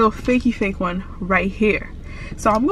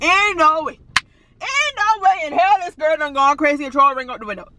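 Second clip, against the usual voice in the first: mock disbelieving boyfriend, a little higher; imitating boyfriend; 5 semitones higher than usual. Vlogger imitating her boyfriend's reaction, mock shocked. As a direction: play him shocked at the thrown ring. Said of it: "he's gonna be like".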